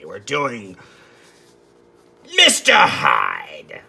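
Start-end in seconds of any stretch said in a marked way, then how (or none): 2.4-3.8 slow, drawn-out shout of the name; dramatic announcement. Pretend. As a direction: boom it like a horror title card. Dramatic reveal of the subject.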